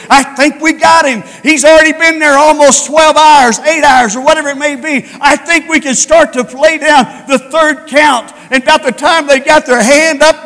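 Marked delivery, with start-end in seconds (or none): 0.1-8.3 gloating devil. Acted.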